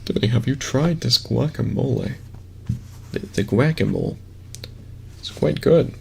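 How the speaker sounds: mock basic white guy voice; lightly voiced white dude parody. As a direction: play a stereotypical white dude. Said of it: "the basic white dude voice".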